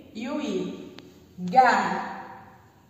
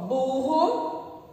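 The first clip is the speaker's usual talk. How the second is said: each word stretched slowly with pauses; slow word reading; much slower than usual. Shown as a demonstration. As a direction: read each word slowly for first graders. Teacher rereading words slowly.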